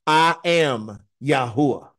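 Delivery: slow, weighty I am Yahuwah with stress on I; emphatic. Retold or imitated. Preacher giving God's closing words to the congregation, slow and emphatic. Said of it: "he says something very emphatic".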